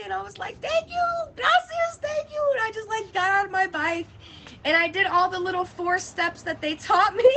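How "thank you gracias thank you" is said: high, gushing thank-yous; mock-tearful high thanks. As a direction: thank them like they saved your life. Effusive thanks.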